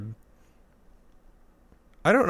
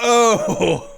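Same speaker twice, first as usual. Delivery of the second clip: surprised oh; 10 semitones higher, 5 dB louder than usual. Retold or imitated. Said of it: "like a normal "Oh" moment".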